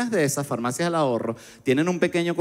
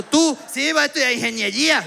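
much higher eager voice; mock eager voice; 10 semitones higher than usual. Borderline guy announces engineering studies, high eager voice. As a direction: proudly announce engineering plans.

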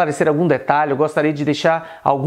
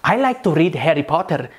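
"Harry Potter" with rolled Indian Rs; Indian-accented example sentence; Indian English accent. Shown as a demonstration. Teacher demonstrating the R for learners, Indian accent. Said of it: "no inglês indiano".

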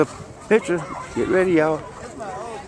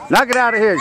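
cheering shout; 5 semitones higher than usual. Real, not acted. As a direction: yell it across the field. Cheering on the batter.

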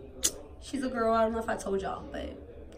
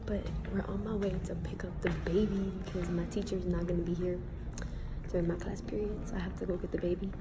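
quiet; 3 semitones lower, 5 dB quieter, faster than usual. Real, not acted. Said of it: "we're talking really quietly".

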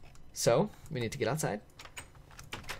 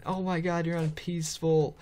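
imagined viewers' higher-pitched outcry; mock screaming; 6 semitones higher than usual. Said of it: "I bet you guys were screaming".

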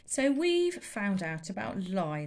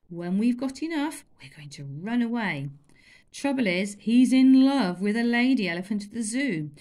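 put-on louder, lively boy's voice; cheeky boy; 3 semitones higher, 6 dB louder than usual. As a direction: tease about the elephant. Chulak explains plan.

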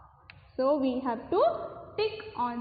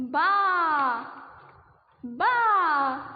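imitated sheep bleat.

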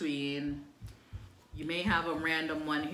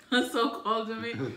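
laughing disbelief; 5 semitones higher than usual. Real, not acted. Repeating friend's teasing insult.

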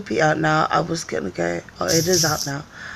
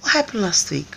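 playful confrontation; 9 semitones higher than usual. Retold or imitated. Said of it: "I was like".

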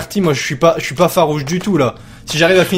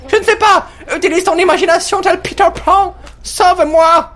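voiced character pleading; 14 semitones higher than usual. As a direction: beg in a high cartoon voice. Voicing the trapped character's reply.

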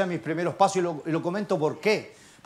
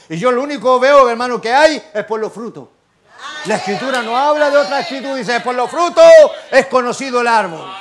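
emphatic, louder sermon delivery; raised-voice preaching; 3 semitones higher, 7 dB louder than usual. Real, not acted. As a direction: press the point on the congregation.

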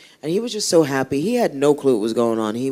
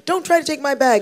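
a high, mock-indignant old lady; grumpy old lady; 11 semitones higher than usual. Old lady refusing help crossing the street, high mock indignation. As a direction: snap it up high like a suspicious granny. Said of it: "she tried to beat him up because".

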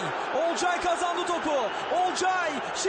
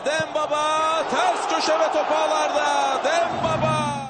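screaming football commentator; 3 semitones lower, slower than usual. Real, not acted. Goal call in live commentary.

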